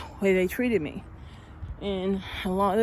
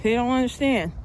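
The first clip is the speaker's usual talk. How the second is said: angry rant; 3 semitones higher, 4 dB louder than usual. Real, not acted. Ranting about rude men.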